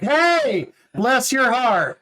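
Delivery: high, very slow and sugary; lightly voiced Georgia lady being sweetly catty; a hint of a Southern drawl; sweet Southern put-down. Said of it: "Whereas in Georgia, they'd be like".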